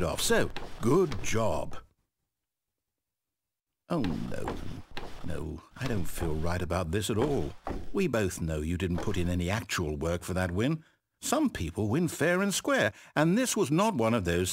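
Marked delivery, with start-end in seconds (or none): 3.9-10.8 lower, subdued misgiving; regretful. Acted. Narrator admitting to Stanley the win was undeserved, subdued regret. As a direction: back down from the praise, uneasy.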